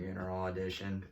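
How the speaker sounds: flat, low funeral announcer voice; deadpan monotone, no life in it. Pretend. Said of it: "Like, the most monotone voice".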